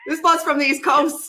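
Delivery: high, amused exclamation; laughing recognition. Real, not acted. Host realising caller is from East Coast, laughing. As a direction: crack up while saying it.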